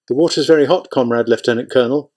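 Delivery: worried aide. Acted. Nervous aide warns commander.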